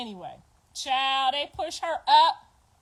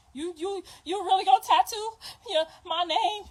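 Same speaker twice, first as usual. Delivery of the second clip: mock hopeful girlfriend; 6 semitones higher than usual. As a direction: imitate her asking in disbelief. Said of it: "she said".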